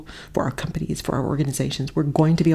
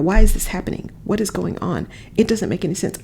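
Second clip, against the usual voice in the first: woe is me. Retold or imitated. Retelling her own spiral, a touch of self-pity. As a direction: lightly play the spiraling complainer. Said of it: "death spiral of woe is me".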